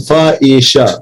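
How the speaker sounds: "Fa, isha" as separate sounds; sounding out. Shown as a demonstration. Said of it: "what am I getting?". ("फ़, इ, श" एक-एक ध्वनि अलग करके)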